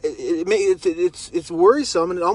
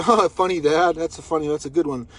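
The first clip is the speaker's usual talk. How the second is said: mock sarcastic amusement; 3 semitones lower than usual. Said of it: "be sarcastically funny with him 'cause he's joking".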